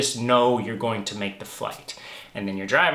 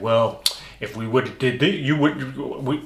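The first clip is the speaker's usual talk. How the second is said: lightly voiced sulky complainer, stumbling; half-hearted mock excuse-making; mild complainer whine. Mocking the complaining friend after the flight, a mild whiny voice. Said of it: "complainer Nelson over here is like".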